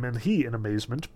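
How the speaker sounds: plain reading voice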